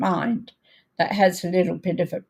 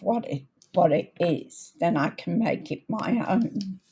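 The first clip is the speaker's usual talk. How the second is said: creaky, croaky starts; hoarse croaky voice; 4 dB quieter than usual. Real, not acted. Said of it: "Sorry about the croaky voice".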